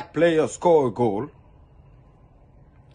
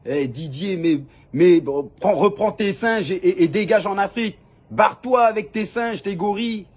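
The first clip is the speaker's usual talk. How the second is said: hate-letter voice; 6 semitones higher, 5 dB louder than usual. Retold or imitated. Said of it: "des lettres".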